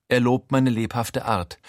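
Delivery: usual speaking voice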